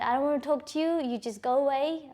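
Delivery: upset shout. Retold or imitated. Locked in room, shouting at boyfriend.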